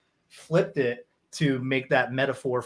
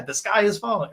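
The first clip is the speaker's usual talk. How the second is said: mock Chicken Little; 7 semitones higher than usual. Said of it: "Chicken Little".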